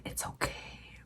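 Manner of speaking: very quiet, growled reassurance; growly professor voice. Retold or imitated. Professor reassuring a student about a late lab, growly. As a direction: imitate the professor with a low-volume growl. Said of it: "there was some growl in that, in that voice".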